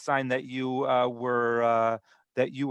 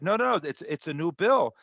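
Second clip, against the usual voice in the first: higher-pitched, insistent retort; retold protest; 4 semitones higher than usual. Vendor assures the customer about the money, mock protest.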